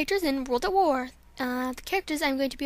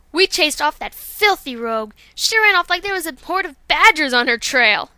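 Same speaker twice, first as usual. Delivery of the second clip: proud boast; 7 dB louder than usual. Acted. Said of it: "here's Violet Mist".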